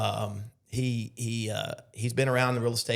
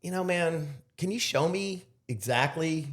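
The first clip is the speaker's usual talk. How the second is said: confronting; 3 semitones higher, slower than usual. Retold or imitated. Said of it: "So I kinda start going".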